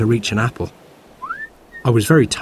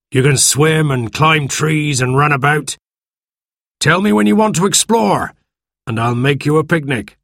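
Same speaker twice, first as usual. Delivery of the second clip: put-on coaxing old sailor, higher; sweet-talking the boy; friendly pirate voice; 4 semitones higher than usual.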